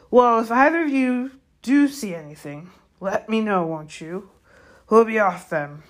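gamekeeper, loud start easing off; Hagrid. Acted. Gamekeeper takes leave of two unhelpful centaurs, brusque. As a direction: start emphatically, then wind down to a parting.

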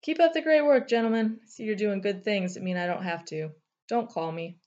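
high and loud breezy sarcasm; mock cheerful dismissal. A narrator's reading. Thunder dismissing his counselors sarcastically. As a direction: wave them off with fake praise.

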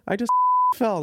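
laughing. Retold or imitated. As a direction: giggle through the confession.

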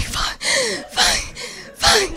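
scared swearing. Retold or imitated. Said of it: "I was just like".

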